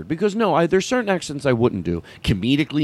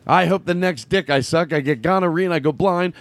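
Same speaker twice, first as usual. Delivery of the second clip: imitating Trent; 5 semitones higher than usual. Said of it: "he goes".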